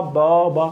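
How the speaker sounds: one बा drawn out longer; lengthened vowel. Shown as a demonstration. Teacher showing prominence by vowel length, lengthened vowel. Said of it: "एक की length बढ़ा दी एक vowel की".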